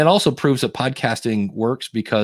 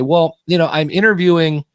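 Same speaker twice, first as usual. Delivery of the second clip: podcast host read; 5 semitones higher, 4 dB louder, slower than usual. Shown as a demonstration. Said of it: "And if I say".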